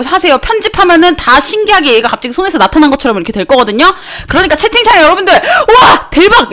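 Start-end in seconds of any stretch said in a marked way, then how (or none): 5.3-6.5 very high, gushing mock awe; exaggerated wow, pitched way up; demonstrated amazement. Shown as a demonstration. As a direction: hype up the audience's reaction. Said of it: "이렇게 치시면 돼요".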